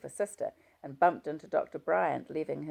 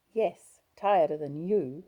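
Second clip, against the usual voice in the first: louder, sharp retort thrown back; wife hitting back at her husband, a touch louder; flung retort; 3 semitones higher, 7 dB louder than usual. A narrator's reading. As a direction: snap it back at him, mildly voiced. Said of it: "I flung at him".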